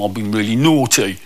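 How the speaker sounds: low-pitched, sheepish confession; lightly voiced sheepish kid. Naughty pupil confesses to a visitor, sheepish. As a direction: own up like a sorry pupil.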